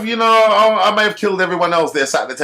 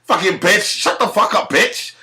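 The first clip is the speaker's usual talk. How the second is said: high mock shout; 7 semitones higher than usual. Cursing back at him.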